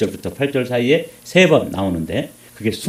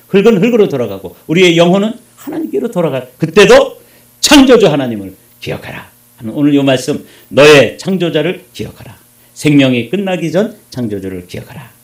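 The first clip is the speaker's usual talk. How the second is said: loud, raised, emphatic sermon climax; forceful preaching; 3 semitones higher, 7 dB louder than usual. Real, not acted. Preacher charges the congregation to remember the Creator, loud and forceful. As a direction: drive the message home to the congregation.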